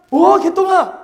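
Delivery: put-on loud, high joyful call to the kid; delighted greeting. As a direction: welcome the child with open arms. Master warmly greets child.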